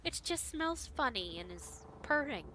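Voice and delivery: lightly voiced prim mare. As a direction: fuss over the odd boat. Horse Sunflower speaks, raised pitch.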